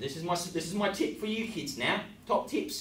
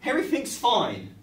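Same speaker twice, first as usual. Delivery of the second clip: higher, louder, laughing through fake calm; trying to sound calm while panicking; mock calm reassurance; 3 semitones higher, 11 dB louder than usual. Real, not acted. Host to kids, laughing while pretending all is fine. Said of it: "not to panic, kids".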